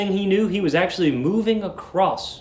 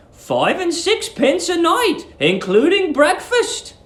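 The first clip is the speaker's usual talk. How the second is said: put-on high, slow, sugary old lady; sweet landlady; 14 semitones higher, slower than usual. Landlady luring the young lodger, high sugary coo. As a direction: coo at him like a doting landlady.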